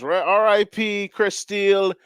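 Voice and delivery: hammed-up DJ shout-out; impression of a famous DJ. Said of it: "let me get my famous DJ on".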